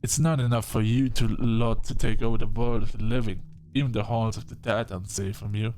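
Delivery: put-on loud, indignant outburst from an old vampire; irritable vampire doctor. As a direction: rail at the newcomer, loudly exasperated. Voices irritable vampire client in game.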